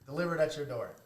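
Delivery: loud, high hammed-up slogan; excited ad pitch. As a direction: sell it like a cheesy ad.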